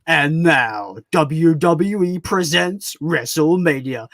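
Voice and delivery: slow drawn-out ring announcer call; wrestling announcer. Retold or imitated. Streamer shows his guest the wrestling announcer intro, slow. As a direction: stretch it like a mock WWE ring announcer. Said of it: "the guy that does, uh, 'cause I'm a big wrestling fan".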